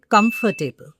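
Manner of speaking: "comfortable" with four beats, com-for-ta-ble; mispronunciation demo. Shown as a demonstration. Teacher quoting what many people say, mispronounced "comfortable". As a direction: say "comfortable" with the middle syllable sounded out. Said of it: "but it's not comfortable".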